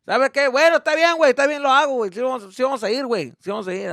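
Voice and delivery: loud, high cheerful giving in; excited dad. Retold or imitated. Dad telling the family they're going, loud and cheerful. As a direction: announce it like a gift.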